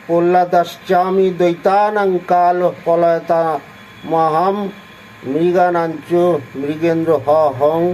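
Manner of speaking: measured Sanskrit verse recitation; scripture recital. Acted. Reading the Gita verse to listeners, in measured recital. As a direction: recite the shloka with care.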